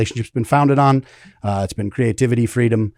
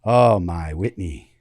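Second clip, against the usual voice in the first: slow, half-hearted interviewer impression, sinking lower at the end; James Lipton; 4 semitones lower, 3 dB quieter, slower than usual. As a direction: savor it like a mock-solemn talk-show host. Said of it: "this half-assed James Lipton impression".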